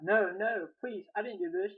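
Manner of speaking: high, pleading outcry; crying out. A narrator's reading. Maria begging her husband to believe her, crying out. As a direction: plead desperately, starting loud then easing off. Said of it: "Maria cried out".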